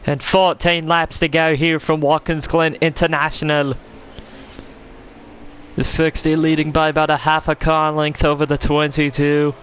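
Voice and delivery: IMSA commentator. Pretend. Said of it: "commentating an entire race like that".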